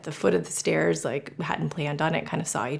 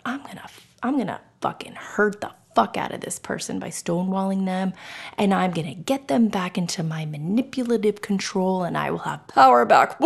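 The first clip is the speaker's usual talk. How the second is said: lightly voiced scheming manipulator, building louder at the end; mock schemer; 3 dB louder than usual. Podcaster mocking the intention she denies having, mock schemer. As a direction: build to a power-hungry finish, half in jest.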